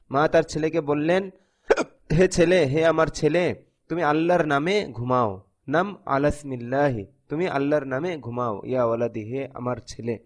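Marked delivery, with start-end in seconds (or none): 2.2-10.2 put-on softer and softer, lulling a child to sleep; tender mother. Mother telling her son to sleep in Allah's name, fading tenderly. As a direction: hush it down like a mother at bedtime.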